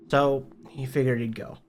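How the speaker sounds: plain reading voice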